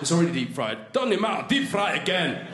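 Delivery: mock Glaswegian exchange; hammed-up Glasgow accent. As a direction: imitate an insistent Glaswegian. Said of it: "while in Glasgow, they say".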